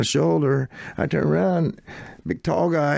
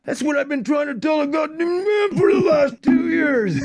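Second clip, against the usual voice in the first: exasperated outburst; 13 semitones higher than usual. Retold or imitated. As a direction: blurt it out, fed up for years. Teddy bursts out in exasperation.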